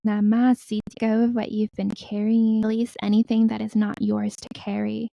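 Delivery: measured meditation voice, pausing between phrases; guided meditation. Acted. Healer telling listeners to release their burdens, guided meditation. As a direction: guide them to let go, unhurried.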